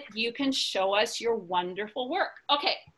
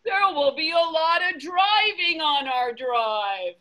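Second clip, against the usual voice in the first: louder, urgent call; excited exclamation; 5 semitones higher, 3 dB louder than usual. Acted. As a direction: announce it with big alarm. Elephant exclaims about driving.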